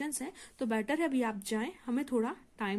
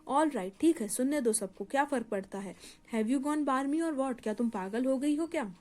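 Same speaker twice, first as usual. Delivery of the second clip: shouting. Acted. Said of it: "जोर जोर से चिल्लाने लगता है".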